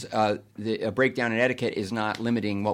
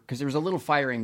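laughing; 2 semitones higher, faster than usual. Real, not acted. Admitting firings, laughs.

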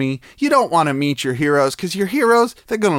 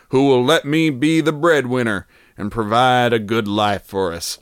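put-on reading in a Texas accent. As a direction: keep the Texas accent going. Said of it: "I went too deep into Texas".

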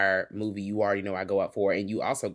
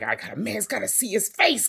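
mock upset vampire; 10 semitones higher than usual. Retelling angry vampire.

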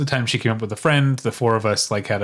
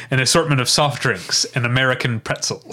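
stentorian regal voice; 2 semitones higher than usual. Retold or imitated. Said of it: "stentorian type of, like, regal voice".

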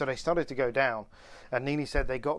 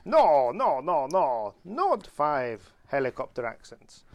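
put-on Italian accent; 3 dB louder, slower than usual. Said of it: "in an Italian accent".

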